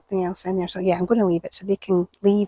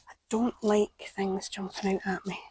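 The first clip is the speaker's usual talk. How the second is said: nervous whisper; 6 dB quieter than usual. Real, not acted. Nervous, talking to camera at bin.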